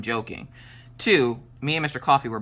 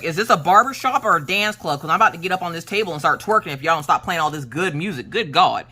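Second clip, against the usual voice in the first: worked up, slightly higher outburst; excited mock complaint; 3 semitones higher than usual. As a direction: playfully protest the great music. Acted excited outburst over nineties hits.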